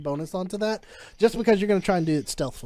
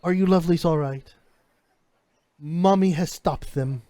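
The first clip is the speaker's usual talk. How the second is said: motherly comfort. Acted. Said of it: "you hear her say".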